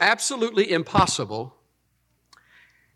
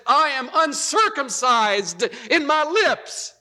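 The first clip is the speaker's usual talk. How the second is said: slow solemn quote; 9 semitones higher, slower than usual. Retold or imitated. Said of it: "The Hebrew says".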